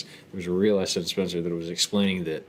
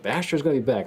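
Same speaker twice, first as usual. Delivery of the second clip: imitating a salty dad, pitched up; mildly heated mock-dad protest, higher voice; dad all mad; 6 semitones higher, faster than usual. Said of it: "he just gets all mad about it".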